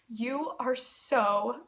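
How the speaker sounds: very slow, tender and earnest; sincere, genuine. Retold or imitated. Taylor telling her she is beautiful, slow sincere tenderness. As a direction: say it slowly, meaning every word. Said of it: "in the most sincerest and genuine tone".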